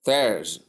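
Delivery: theirs as THERZ, th first and z last; th sound. Shown as a demonstration. Teacher building Thursday for learners, th sound. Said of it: "that is how you pronounce".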